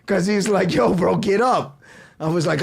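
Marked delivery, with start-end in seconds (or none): 0.7-1.8 drawn-out, louder, higher retold urging; urging friend. Laughing friend trying to pick him up, urging. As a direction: slowly coax a fallen pal, voice raised.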